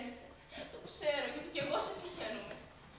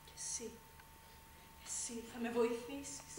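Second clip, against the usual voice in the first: softer, intimate turn to the sister; sudden quiet; 2 semitones lower, 7 dB quieter than usual. Acted. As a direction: drop the voice to draw her close. Repeats quietly. (χαμηλόφωνα, οικεία)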